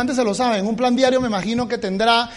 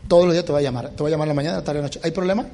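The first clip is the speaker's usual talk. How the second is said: low firm warning; 7 semitones lower, faster than usual. Shown as a demonstration. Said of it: "le vas a decir así".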